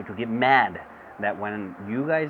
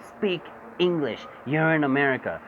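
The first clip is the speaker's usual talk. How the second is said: mock racist; 4 semitones higher than usual. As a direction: imitate an old white man scolding. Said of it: "looks at a Latino and says".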